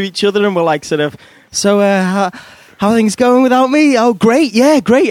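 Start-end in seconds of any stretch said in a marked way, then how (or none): 1.5-5.1 higher-pitched, awkward small talk with an ex; overly keen, uncomfortable mock politeness. Exes bumping into each other, awkward. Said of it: "an awkward situation".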